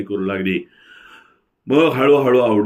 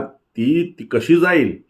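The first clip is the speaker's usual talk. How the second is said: stunned disbelief; 7 semitones higher, much slower than usual. A narrator's reading. Husband hears wife is gone.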